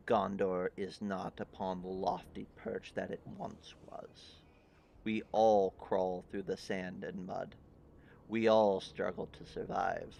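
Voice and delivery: a weary king pleading for alliance; grave king. Acted. GM voices the king.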